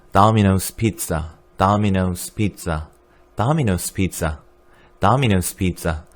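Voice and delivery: Domino's said taminos, first o like 아, slowly; slow American Domino's. Shown as a demonstration. 강사가 학생들에게 천천히 발음 시범. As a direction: stretch out Domino's Pizza slowly, 아 then 오. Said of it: "앞에 오는 아처럼 소리 나고".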